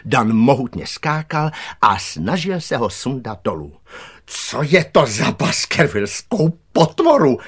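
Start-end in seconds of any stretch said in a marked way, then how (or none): 4.3-7.4 high, loud, outraged question; gardener's shout. A narrator's reading. Gardener demands what this beast is, shouting. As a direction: yell in alarm from up the tree. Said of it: "křičel zahradník".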